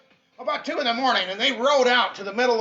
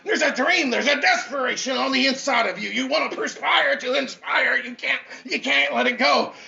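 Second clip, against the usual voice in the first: fired-up preaching; 2 semitones higher than usual. Acted. Speaker rallying his audience, fired-up preaching. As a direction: preach it to the crowd with fire. Motivational preaching at full force.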